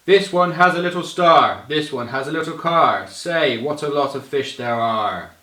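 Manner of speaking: loud, high, booming idiot voice; booming loud read of a children's rhyme; big booming voice. Shown as a demonstration. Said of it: "big booming, loud idiot kind of voice".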